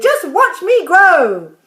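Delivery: high, loud and drawn out; slow shouting crone. A narrator's reading. Grandma shouting to George while growing, slow and loud. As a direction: stretch it out like a triumphant old grandma. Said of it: "she shouted".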